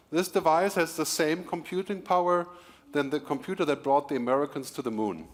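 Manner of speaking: ordinary talk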